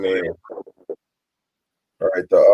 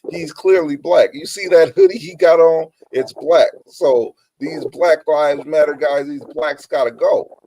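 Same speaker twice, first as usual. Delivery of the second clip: higher-pitched mock-serious quote; facetious; 5 semitones higher than usual. Host quoting a YouTuber blaming the wrong people, facetious. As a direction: imitate someone being facetious, pitched up. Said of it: "he was being facetious about it".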